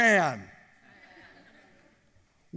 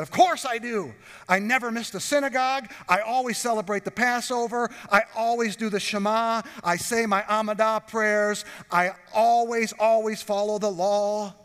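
smug self-righteous; 4 semitones higher, 4 dB louder than usual. Retold or imitated. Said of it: "They would have said".

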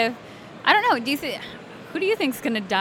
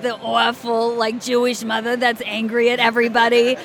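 Jewish mother accent. Shown as a demonstration. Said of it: "then I can do".

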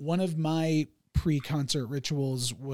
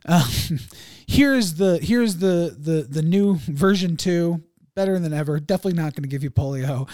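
announcer voice; 7 dB louder than usual. Retold or imitated. Voicing officials announcing new vaccine.

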